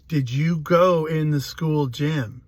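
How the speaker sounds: slow, pressing police interrogator, imitated; insistent questioning. Police questioning a crying little boy, insistent. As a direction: imitate an officer asking slowly and pointedly. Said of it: "they kept asking me".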